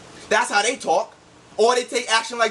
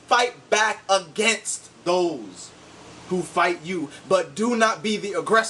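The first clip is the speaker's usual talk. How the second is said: slow scripture reading; 2 semitones lower, slower than usual. Shown as a demonstration. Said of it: "The verse one ninety says".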